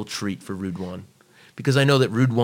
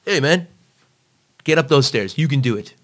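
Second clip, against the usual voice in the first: pushing; 5 semitones higher, 5 dB louder than usual. Retold or imitated. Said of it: "just needed to be pushed".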